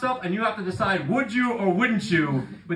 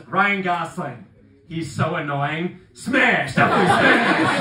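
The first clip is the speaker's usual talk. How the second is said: put-on building to a loud kid's shout; kid's verdict; 6 dB louder, slower than usual. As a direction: end on a loud, sure smash. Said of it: "He goes".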